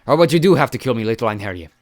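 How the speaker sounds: lightly voiced croaking giant; a dying giant croaks a taunt. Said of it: "he croaked".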